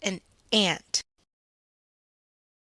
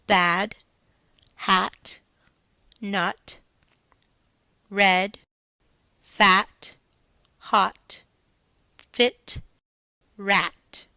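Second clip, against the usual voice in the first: each word said louder, set apart by pauses; words called out one by one; 4 dB louder, much slower than usual. Shown as a demonstration. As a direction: call out each word clearly for the class. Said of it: "Here are the words".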